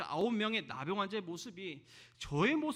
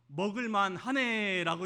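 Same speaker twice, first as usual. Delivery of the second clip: a blunt, offhand "먹을만 하네", slowed and a bit louder; curt understatement; 5 dB louder, slower than usual. Retold or imitated. Husband answering his wife about dinner, curt and offhand. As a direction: toss off "먹을만 하네" like a gruff, shy husband. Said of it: "전 이렇게 말했습니다".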